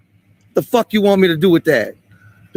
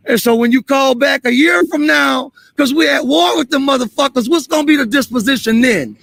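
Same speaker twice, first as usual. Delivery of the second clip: angry shout; 3 semitones higher than usual. Real, not acted. Heated street confrontation with police.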